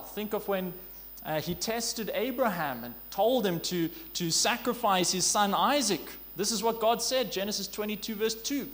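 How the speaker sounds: normal talking voice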